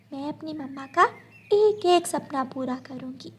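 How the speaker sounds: put-on high, soft childlike promise; earnest daughter. Daughter promises her mother to fulfil her dreams. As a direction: quietly vow to make mother proud.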